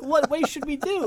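high, meek asking; sheepish question. Retold or imitated. Teen asking the postal worker how, sheepish. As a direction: ask like a caught kid. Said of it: "And I'm like".

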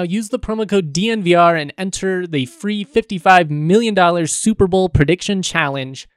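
upbeat sponsor ad read; booming prize announcer. Acted. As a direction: sell it like a hyped-up promo. Reads a sponsor ad.

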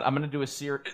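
interrupted by a hiccup. Real, not acted. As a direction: hiccups break the words. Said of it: "I really do still have hiccups".

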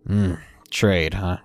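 low, irritated grumble; irritated gruff man. Acted. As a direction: grumble it like a cranky old man. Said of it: "He sounded a bit irritated".

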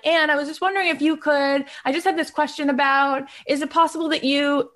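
a hint of a wheedling favor-seeker; mock pushy favor ask. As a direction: play the friend who only texts to ask for something. Mock agenda-driven check-in message.

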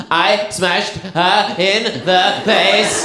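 hammed-up crying kid; sobbing little boy. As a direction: talk and sob at the same time like a small boy. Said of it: "the little boy looked at his mum and went".

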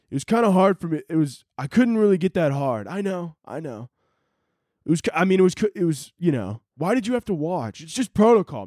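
nervous defensive guy. Acted. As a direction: defend yourself, embarrassed and rattled. Acted NASA worker sketch.

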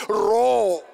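loud, drawn-out order to roar; retold command. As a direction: fire it out as a command. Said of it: "puts a mic and she says".

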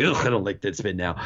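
low, mildly disgusted grumble; mock disgust. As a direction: imitate a put-off reader grumbling. Imagined disgruntled reader reacting.

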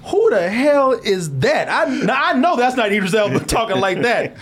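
playfully incredulous outburst, breaking into a laugh; mock disbelief. Viewers hearing Idris Elba's accent, in mock disbelief.

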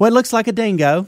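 high, mock British-Australian accent; a girl insisting in a put-on British-Australian accent. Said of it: "foreign accent".

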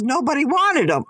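blurted with a laugh; old aunt's blunt answer, laughing; aunt laughs off the baby sale; laughing punchline. Retold or imitated. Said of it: "And she goes".

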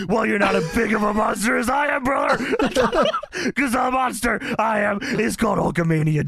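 hammed-up Hogan shouting. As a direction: boom it like a wrestling promo. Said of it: "Hogan quote".

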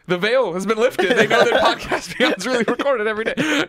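high, laughing mock alarm; high-pitched, amused outcry; laughing mock revelation. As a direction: exclaim it as a blown secret, laughing. Joking mock revelation amid laughter.

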